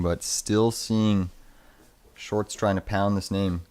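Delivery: talking while crunching ice; words round a mouthful of ice; chewing ice. Real, not acted. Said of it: "I was just chewing on some ice".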